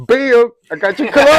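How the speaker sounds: high, loud burst of proud excitement; souped-up kid. Retold or imitated. Little boy presenting stolen cologne to his dad, souped-up and cheesing. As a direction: announce the big surprise at full voice, acting it out. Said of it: "I was souped".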